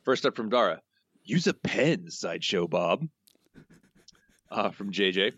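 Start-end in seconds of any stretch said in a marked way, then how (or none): 1.2-3.1 lightly voiced cartoon crook; a hint of a cartoon character voice; Snake. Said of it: "your best snake voice".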